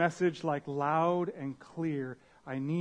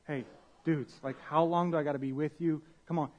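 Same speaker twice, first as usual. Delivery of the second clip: easygoing, friendly mock exasperation; a light-hearted come on, not a scolding; casual exasperation. Pastor voices Jesus teasing his disciples, casually exasperated. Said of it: "I don't think he's fully saying it in the tone that we think".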